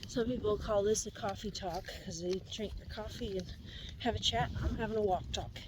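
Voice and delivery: slightly out of breath from walking. Real, not acted. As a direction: talk while out of breath on a walk. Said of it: "that I'm out of breath".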